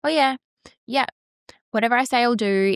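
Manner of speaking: mock someone waving you off; sarcastic yeah-whatever mimicry; mocking dismissive voice. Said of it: "being like".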